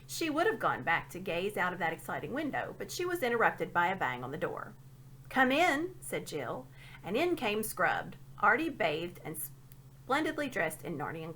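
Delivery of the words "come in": calling out. A narrator's reading. Jill calls to door.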